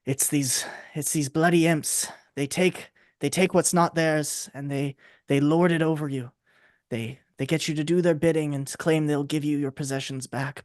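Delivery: lightly voiced dramatic half elf; a hint of a mournful storyteller lamenting. Half elf lamenting the imps to the heroes, lightly voiced. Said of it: "half elf, she stands up".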